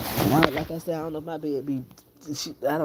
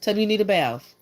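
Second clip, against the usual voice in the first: firm motherly coaxing; 6 semitones higher than usual. Real, not acted. Mother telling her crying daughter to go get a bath, firm and coaxing.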